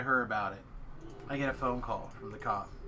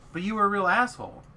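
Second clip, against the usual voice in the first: retold telling-off; 6 semitones higher, 6 dB louder than usual.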